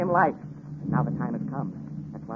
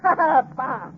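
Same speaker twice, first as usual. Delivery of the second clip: a higher mocking laugh spat into bah; scornful laugh; 7 semitones higher than usual. Victor to Waldman, dismissive scornful laugh. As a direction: laugh off the warning with contempt.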